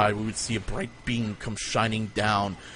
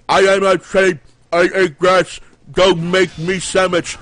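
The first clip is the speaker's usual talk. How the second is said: higher, much louder dumb sheep voice, slow at the end; talking sheep; 7 semitones higher, 10 dB louder than usual. Pretend. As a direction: bleat it out like a sheep with no lips. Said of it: "everything sounds like".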